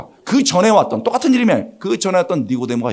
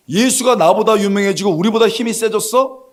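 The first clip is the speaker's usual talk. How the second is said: higher-pitched mock indignation; lightly acted jealous disbelief; indignant religious leader; 5 semitones higher than usual. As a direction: act out a leader affronted by a rival.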